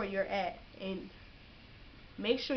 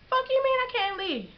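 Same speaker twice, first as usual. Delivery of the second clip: high indignant yell, much louder; angry outburst; 6 dB louder than usual. Retold or imitated. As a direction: fire it back in disbelief, furious. Angry retort at staff.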